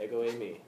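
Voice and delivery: "Ego eimi" said as EH-go AY-mee; Greek pronunciation. Shown as a demonstration. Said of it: "that's how you say it in Greek".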